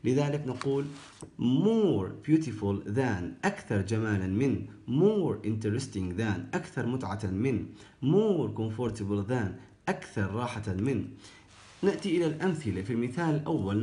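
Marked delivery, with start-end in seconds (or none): 1.4-3.5 slow drill. Shown as a demonstration. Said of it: "teacher drilling comparative form". 4.9-6.6 slow drill. Shown as a demonstration. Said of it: "teacher drilling comparative form". 8.0-9.5 slow drill. Shown as a demonstration. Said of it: "teacher drilling comparative form".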